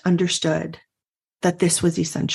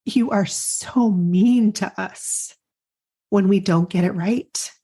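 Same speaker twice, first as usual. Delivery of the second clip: emotional. Real, not acted. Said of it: "it's making me emotional to remember".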